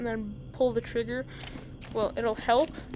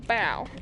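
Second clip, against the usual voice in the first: gunshot noise; 2 semitones lower, 6 dB louder than usual. Shown as a demonstration. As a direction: mouth gunshot, bow. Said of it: "walk around like this and".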